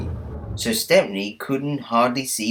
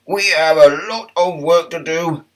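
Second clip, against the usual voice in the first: higher, louder cheerful tram voice; raised welcoming tram voice; friendly tram Toby; 7 semitones higher, 5 dB louder than usual. Acted. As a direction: greet him like a kindly old tram. Toby continues.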